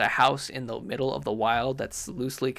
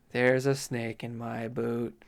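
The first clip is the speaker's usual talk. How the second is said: reluctant catchphrase; 3 semitones lower, slower than usual. Acted. Delivers the demanded line slowly.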